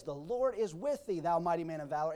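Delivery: measured blessing, ending on a rise; solemn proclamation again. Acted. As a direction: give it as a firm promise. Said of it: "but he says".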